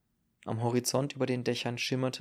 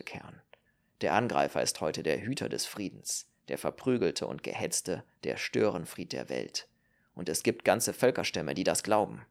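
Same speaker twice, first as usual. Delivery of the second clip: a lower voice, bitterly ironic; lightly voiced Marill; 5 semitones lower than usual. Marill lamenting the upside-down age to Kern, lower and bitter. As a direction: hold forth with dry bitterness.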